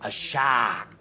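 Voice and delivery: put-on Australian accent. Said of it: "you've gone a bit cockney now".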